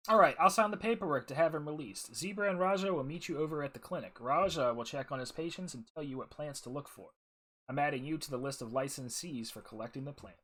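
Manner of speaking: lively, projected reading of a character's lines; voiced-up quest briefing, lightly acted; game dialogue read-aloud. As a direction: read the dialogue out clearly with some lift.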